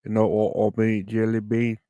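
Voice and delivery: light Aussie twang; Australian accent. Shown as a demonstration. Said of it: "That's my, uh, Australian".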